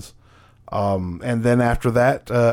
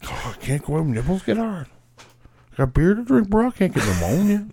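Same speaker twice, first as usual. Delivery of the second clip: redneck voice; 7 semitones higher than usual. Retold or imitated. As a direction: whine it like a lazy redneck. Voicing Austin's excuses.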